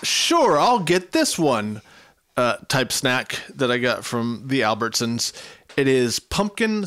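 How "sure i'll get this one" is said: grudging. Pretend. Voicing a reluctant store purchase.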